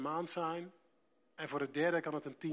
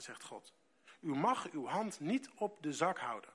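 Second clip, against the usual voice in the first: scripture reading; 3 dB louder than usual. Acted. Preacher reads Bible passage aloud.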